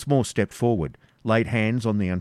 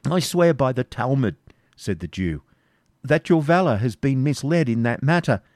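raised, earnest oath; protesting Isaac; 5 semitones higher, 4 dB louder than usual. Acted. Isaac swearing to the Baron by the Talmud. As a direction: swear it fervently.

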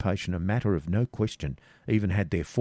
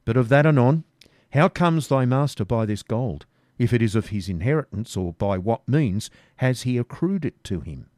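louder, higher demand; pressing robber; 3 semitones higher, 3 dB louder than usual. Acted. Robber demands about the gold, louder. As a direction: lean on him hard.

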